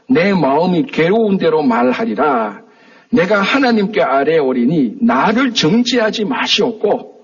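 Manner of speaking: slow, measured Bible reading; preacher reading Job's lament aloud to the congregation, slow and solemn; scripture reading. Acted. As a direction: read the verse slowly and solemnly, like a lectern reading.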